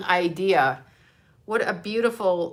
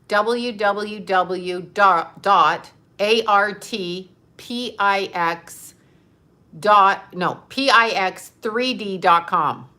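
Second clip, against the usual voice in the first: slow spelling; 5 dB louder, slower than usual. Real, not acted. Spelling website again slowly.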